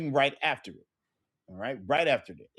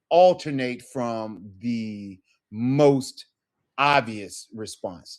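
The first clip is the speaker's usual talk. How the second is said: slow; 3 semitones lower, much slower than usual. Shown as a demonstration. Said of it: "slowed emphasis".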